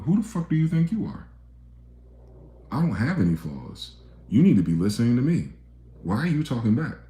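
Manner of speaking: high, affronted outrage at being questioned; indignant narcissist. Acted. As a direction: play the offended narcissist who won't be challenged.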